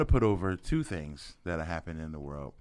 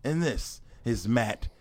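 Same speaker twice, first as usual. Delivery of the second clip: whisper; 2 semitones higher, slower than usual. Acted. Whispered self-intro after announcement.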